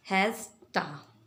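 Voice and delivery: हैज़ टा, has to linked into one, ending in a; casual spoken hasta; reduced hasta. Shown as a demonstration. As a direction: say हैज़ टा as one smooth word. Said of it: "किस तरह pronounce करेंगे".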